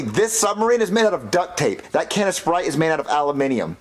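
lightly British-sounding words; British pronunciation. Acted. Boy insisting on his submarine's materials, slightly British. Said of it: "saying it like you're British".

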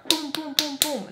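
rhythmic booming knock sounds; imitated door knocking. Retelling someone banging on restroom door, imitated knocking. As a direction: boom out each knock. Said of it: "knocking on the door".

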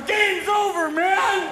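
panicked agent shout. Retold or imitated. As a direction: yell it like the mission failed. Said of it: "Secret Service are going".

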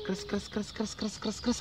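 soft rapid "kres kres" crunches; hushed, rhythmic munching effect; crunching noise. Retold or imitated. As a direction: imitate tiny bites on a leaf. Imitating a snail munching.

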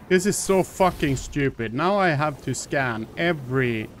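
frustrated rant. Real, not acted. Frustrated player ranting at game.

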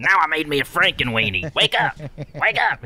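goofy character frantically trying to rouse someone; Ernest. Acted. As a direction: mock-desperate comic character voice. Acting Ernest with dead dog.

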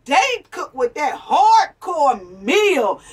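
slow, loud shout. Real, not acted. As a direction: shout it out slowly. Bragging about Southern cornbread.

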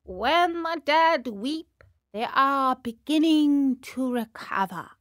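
slow grave crow, lightly voiced; solemn crow. Crow declaring the weeping puppet will recover, slow and solemn. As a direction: pronounce it like a verdict.

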